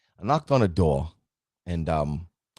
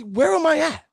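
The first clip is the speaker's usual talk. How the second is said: much higher questioning voice; searching self-question; 14 semitones higher than usual. Retold or imitated. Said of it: "and say".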